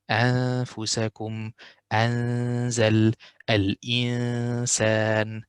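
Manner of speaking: light, thin ghunna on the noon; simplified nasal tone. Shown as a demonstration. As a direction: keep the hidden noon light and unheavy. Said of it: "you will say the tone simplified".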